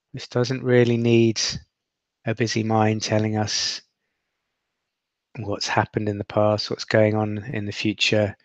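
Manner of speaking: steady, unhurried meditation guide; guided meditation. Acted. Guide helping listeners rest in awareness, in an even meditation voice. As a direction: let each instruction settle with long silences.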